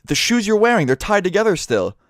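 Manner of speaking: high, exasperated retold comeback; mock incredulous accusation. Guard points out the obvious theft.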